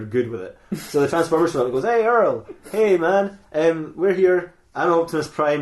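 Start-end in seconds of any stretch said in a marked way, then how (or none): 1.8-5.6 lightly voiced nineties teenager; a hint of slacker teen, starting higher; Optimus Prime. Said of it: "I'm talking like a teenager in the nineties".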